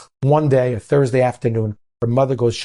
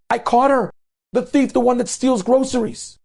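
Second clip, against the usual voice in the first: high, loud accusing cry; calling out publicly; 13 semitones higher, 4 dB louder than usual. Retold or imitated. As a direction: announce the thief to the whole store. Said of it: "starts calling out in front of".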